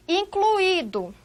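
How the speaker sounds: incluído said slowly as in-clu-Í-do; pronunciation demo. Shown as a demonstration. Teacher presents the next word incluído, careful hiatus. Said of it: "olha a pronúncia".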